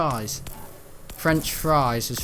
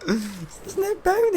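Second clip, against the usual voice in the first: mock emphatic; much slower than usual. High drawn-out emphatic.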